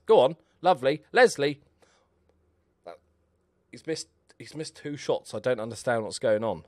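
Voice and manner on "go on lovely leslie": excited cheering. Real, not acted. Cheering a chance in the match.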